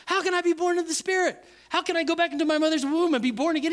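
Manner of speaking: high, fast incredulous questions; acted bafflement. Nicodemus questioning Jesus about being born again, high baffled voice.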